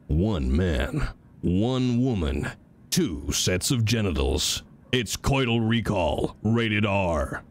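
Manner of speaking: deep slow read of the game line. Shown as a demonstration. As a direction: drop it low and take it slow. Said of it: "That's better".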